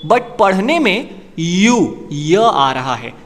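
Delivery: very slow, stressing "य"; slow down to show the "य" sound; slow careful teacher emphasis; slow explanation. Shown as a demonstration. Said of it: "explains sound of यूनियन".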